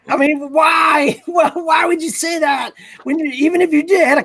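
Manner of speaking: loud, high disbelieving shout of why; exasperated, can't believe it; incredulous why. Real, not acted. Incredulous rant about a comment.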